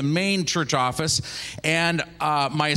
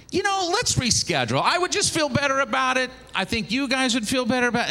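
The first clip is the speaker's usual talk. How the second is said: higher, anxious urging; nervous pleading; 8 semitones higher than usual. Retold or imitated. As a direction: nervously push to reschedule. Pastor nervously urging reschedule.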